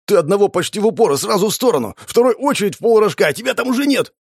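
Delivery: high-pitched, excited rattle; admiring gabble. A narrator's reading. Shumov recounting the fight, admiring gabble. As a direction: gush over every shot, high and eager. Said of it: "восхищённо зачастил Шумов".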